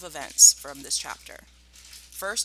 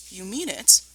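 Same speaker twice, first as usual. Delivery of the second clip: hopeful cry; 4 semitones higher, 8 dB louder than usual. Acted. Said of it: "cried Badger".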